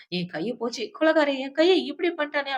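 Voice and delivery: retold outcry, pitch climbing on the accusation; mild mock wail. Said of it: "அப்படின்னு சொல்லி இவ கத்திட்டு". (வலியில் புலம்புவது போல லேசாக)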